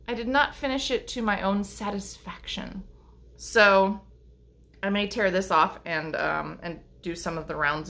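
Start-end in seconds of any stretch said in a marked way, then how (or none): 0.1-2.8 whispered confession, no voice at all; a hushed aside to the viewer. Acted. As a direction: breathe it like a secret. Whispered repeat of her line.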